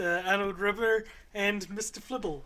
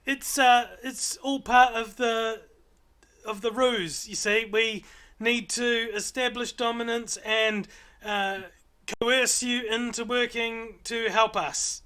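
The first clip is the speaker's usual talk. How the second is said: higher, louder little owlet chatter; 5 semitones higher, 4 dB louder than usual. Acted. Owlet explaining their ruse to the party, higher little creature voice.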